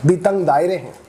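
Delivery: slow, measured mushaira verse delivery; poetry recitation. Acted. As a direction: recite it line by line, pausing and lifting repeats. Recites a protest poem.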